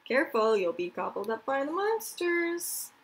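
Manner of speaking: hammed-up creepy warning; spooky warning. Children scare each other with monster stories on the ferry, spooky warning. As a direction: spook the listeners with the monster tale.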